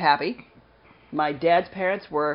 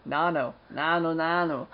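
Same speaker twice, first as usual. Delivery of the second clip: a light nod to a sitcom alien's greeting, barely voiced; quiet half-hearted alien greeting; Mork from Mork and Mindy; 3 semitones lower, 6 dB quieter, slower than usual. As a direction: toss off the alien catchphrase softly and lightly. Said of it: "enough of the Robin Williams moment from Mork and Mindy".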